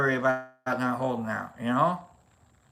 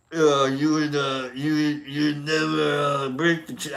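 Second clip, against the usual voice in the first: Stallone; 2 semitones lower than usual. Pretend. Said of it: "let's try Stallone".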